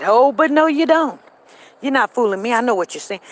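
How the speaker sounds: lightly voiced teacher catching a pupil out; stern teacher. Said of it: "And my teacher said".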